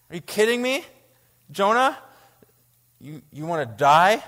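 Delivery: you can't be serious; incredulous. Real, not acted. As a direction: cry out in disbelief at Jonah. Incredulous outburst at Jonah.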